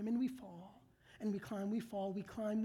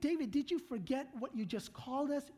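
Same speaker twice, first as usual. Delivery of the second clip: ordinary talk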